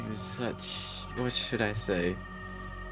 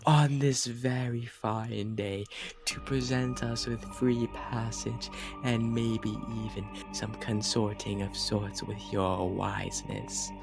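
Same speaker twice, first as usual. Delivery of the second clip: slow, flowery, grovelling praise; pompous worshipper; slower than usual. Acted. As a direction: lay the flattery on thick. Player resumes flowery praise.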